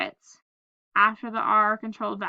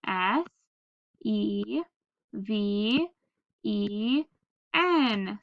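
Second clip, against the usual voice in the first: spelling aloud; much slower than usual. Shown as a demonstration. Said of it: "Spell it".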